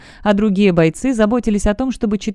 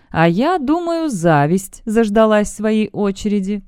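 playful; 3 semitones higher than usual. Acted. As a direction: toy with the bet, drawing it out. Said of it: "игриво произнёс". (игриво, с растяжкой)

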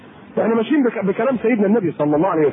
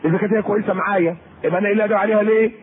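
quick reasoning reply; faster than usual. Retold or imitated. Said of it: "قول".

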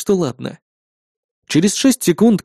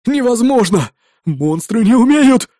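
disbelieving shout; 7 semitones higher, 4 dB louder, slower than usual. Acted. Terrified crowd disbelieves talking monster.

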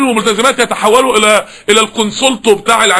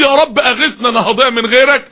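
tearful plea. Retold or imitated. Recalls tearful prayer.

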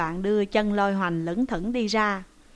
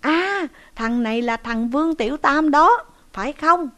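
higher, louder accusing bark; shouting sharply; 5 semitones higher, 5 dB louder than usual. Acted. Tiều Cái pretending to recognise the thief, loud sharp shout. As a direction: snap the question out loud to fake recognition. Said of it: "quát lên rằng".

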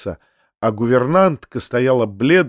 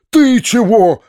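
higher, louder sharp shout; 9 semitones higher, 6 dB louder, slower than usual. A narrator's reading. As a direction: snap out the question. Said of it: "закричал он". (дядя кричит на Гаврилу)

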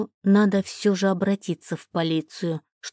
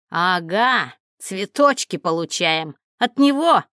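jealous sneer. Acted. Ex-husband catching her with the flowers, jealous sneer rising to a shout. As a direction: sneer at the flowers, then snap.

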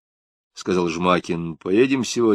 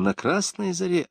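feverish muttering; 9 semitones higher, 4 dB quieter than usual. Acted. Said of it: "лихорадочно быстро забормотал он".

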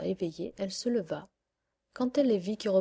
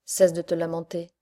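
scolding witch; 2 semitones lower, 6 dB louder than usual. Acted. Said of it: "dit la vieille".

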